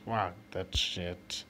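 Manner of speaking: usual speaking voice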